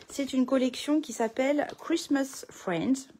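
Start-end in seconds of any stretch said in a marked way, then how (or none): 1.8-3.1 lightly put-on English accent, slowed down; French speaker showing off a bit of English accent; showy English accent. Shown as a demonstration. Crafter naming the collection to viewers, showy English accent. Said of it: "notez mon bel accent anglais".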